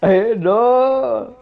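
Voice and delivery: high panicked yell; shout. Real, not acted. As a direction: shout it out in alarm. Monster breaking things.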